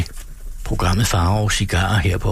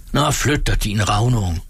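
said angrily. Acted. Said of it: "sagde han vredt".

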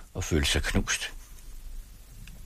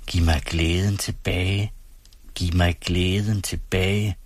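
slow, pleading inner prayer; silent prayer; slower than usual. A narrator's reading. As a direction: pray it slowly under the breath. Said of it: "begyndte han at bede i sine tanker". (langsom, bedende)

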